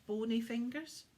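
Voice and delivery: urgent Santa question; pressing question. Acted. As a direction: quiz the boy about the villain. Santa questioning William about hunter.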